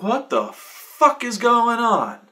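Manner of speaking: high, slow, drawn-out bewilderment; baffled. Retold or imitated. Player confused by the friend's strange fighting, drawn out. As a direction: stretch it out, totally lost. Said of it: "I'm like".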